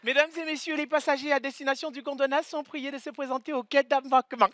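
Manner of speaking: soft airline announcement voice; calm boarding call over the speaker; over the intercom. Retold or imitated.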